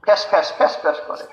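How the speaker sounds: fast, rasping demo of a broken voice; mock hoarse voice from shouting all night. Shown as a demonstration. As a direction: rasp out the words as if your voice is gone. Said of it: "মুখ দিয়ে কথা বের হয় না".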